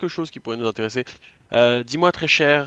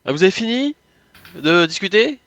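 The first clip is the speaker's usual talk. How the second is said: pointed; 9 semitones higher, 7 dB louder than usual. Acted. Interrupting the pair, pointed.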